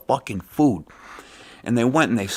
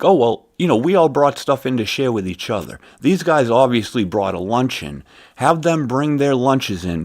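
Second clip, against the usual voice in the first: raised, higher voice pitched across a room; calling across the room; 4 semitones higher, 4 dB louder than usual. Retold or imitated. Worker to boss across the conference room, calling out. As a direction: call it out to the boss. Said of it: "out across the conference room".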